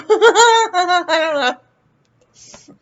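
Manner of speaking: slow, laughing I don't know. Real, not acted. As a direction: giggle it out slowly. Laughs at own loopiness.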